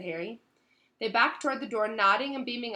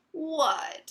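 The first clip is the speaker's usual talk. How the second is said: higher, louder sulky retort; petulant, pitched-up reply; 6 semitones higher, 5 dB louder than usual. A narrator's reading. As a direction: answer like a sulking girl. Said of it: "she said sulkily".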